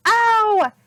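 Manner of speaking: high, loud whine; whining pirate. A narrator's reading. Pinky complaining about sand in his eyes, high whine. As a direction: whimper about the sand like a big baby. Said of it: "Pinky whined".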